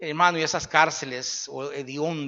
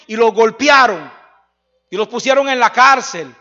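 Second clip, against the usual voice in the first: shouted; 3 semitones higher, 8 dB louder than usual. Real, not acted.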